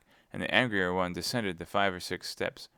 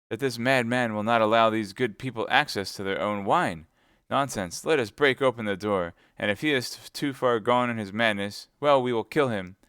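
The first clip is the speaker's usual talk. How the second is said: angry threat; 3 semitones higher, 6 dB louder than usual. Acted.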